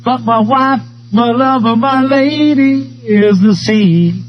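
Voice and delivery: lightly voiced old sailor, slow. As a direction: recite it like a salty sailor. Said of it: "and the sailor said".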